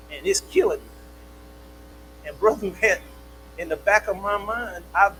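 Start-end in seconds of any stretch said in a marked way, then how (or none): 0.1-2.3 whiny daughter. Acted. Daughter complaining about algebra.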